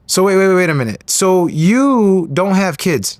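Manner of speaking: slow right down on the point being checked; puzzled double-checking. Retold or imitated. Man double-checking with a young boxer about kids, puzzled.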